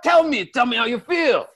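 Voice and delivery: mock demanding. Husband demands answer.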